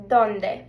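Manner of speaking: ¿dónde? said DON-deh for the class to repeat; Spanish pronunciation. Shown as a demonstration. Teacher says ¿dónde? for students to echo. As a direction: model it once. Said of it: "So repeat after me".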